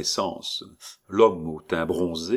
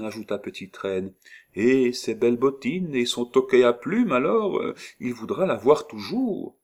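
higher, louder storytelling crone; old woman; 5 semitones higher, 3 dB louder than usual. Acted. Disguised old woman spins a tale to the girl, higher voice. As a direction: spin a sweet tale for the child.

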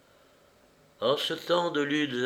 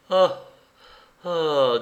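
loud contented ahs, the first higher; satisfied sighs; 4 semitones higher, 6 dB louder than usual. A narrator's reading. Starving beadle finishing his bread, satisfied sighs. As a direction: sigh with relief over the last bite. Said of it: "en avalant la dernière bouchée".

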